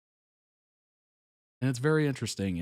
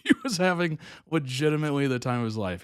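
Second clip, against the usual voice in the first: laughing, faster; 3 semitones higher, faster than usual. Real, not acted.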